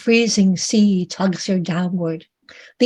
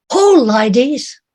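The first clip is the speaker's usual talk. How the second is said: urging sailor; 4 semitones higher, 4 dB louder than usual. Acted.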